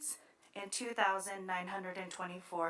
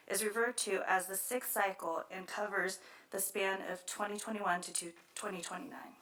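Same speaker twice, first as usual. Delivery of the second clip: out of breath. Real, not acted. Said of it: "Sorry, I'm catching my breath".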